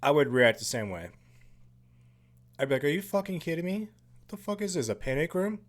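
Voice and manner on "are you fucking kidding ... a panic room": mock disbelief, pitched well up; higher-voiced, baffled protest; incredulous. Viewer imagining his own reaction to the panic room, incredulous.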